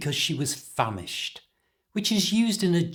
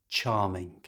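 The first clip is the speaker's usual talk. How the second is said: dry sarcastic "charming"; "charming" said flat and low to mean the opposite; 5 semitones lower, 4 dB quieter than usual. Shown as a demonstration. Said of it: "using it like a lot of English people do, sarcastically".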